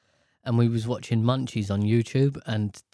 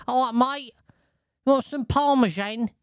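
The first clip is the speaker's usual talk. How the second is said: high, mock matey waiter; casual waiter; 11 semitones higher than usual. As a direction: pitch it up like an over-familiar waiter. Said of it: "He just came over, he went".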